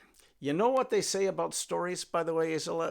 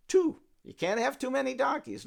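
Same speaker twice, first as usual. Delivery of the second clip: excited exclaim; 10 semitones higher, 6 dB louder than usual. Real, not acted. Teller's excited aside.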